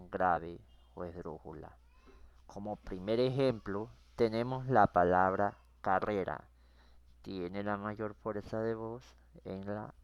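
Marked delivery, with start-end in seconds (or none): 5.8-6.5 carrera, with the weight on RRE; stress on second-to-last syllable. Shown as a demonstration. Teacher working the first example, carrera stressed on its penultimate syllable. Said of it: "penúltima sílaba".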